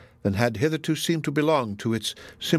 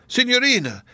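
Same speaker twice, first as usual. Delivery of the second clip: much higher, louder anguished cry; the name breaks high in panic; desperate cry; 13 semitones higher, 4 dB louder than usual. Acted. Donatello pleading with Miriam, higher anguished cry. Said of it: "cried Donatello".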